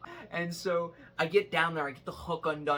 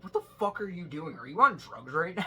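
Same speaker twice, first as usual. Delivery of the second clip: mock angry boss; 4 semitones higher, 4 dB louder than usual. Boss scolding, retold.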